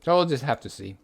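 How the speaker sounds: sleepy, drowsy voice; nearly falling asleep; nodding off. Real, not acted. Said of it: "I'm falling asleep at my chair".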